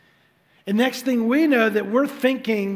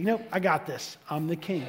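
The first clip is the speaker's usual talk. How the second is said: proud dismissal; 4 dB quieter than usual. Retold or imitated. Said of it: "didn't need a God".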